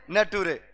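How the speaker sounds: नटूरे said as "na-too-re", nature read as spelled; the boy sounds out nature as नटूरे; student misreading; mispronounced nature. Retold or imitated. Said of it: "उस लड़के ने पढ़ा नटूरे".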